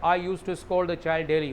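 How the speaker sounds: slow, careful English to be repeated; teacher modelling a sentence for repetition; slow model sentence. Shown as a demonstration. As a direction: say it slowly so the class can echo it. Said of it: "वापस बोलो।".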